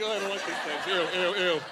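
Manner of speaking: a touch of fake squeamish disgust; mock disgust. Straight man copying the gay friends, a touch of squeamish disgust. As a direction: fake being grossed out. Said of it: "Be like".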